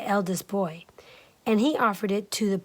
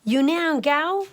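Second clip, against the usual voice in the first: much higher, loud chasing yell; much higher calling shout, slow on the name; 7 semitones higher, 6 dB louder, much slower than usual. Acted. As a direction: call after it running. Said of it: "ran outside shouting".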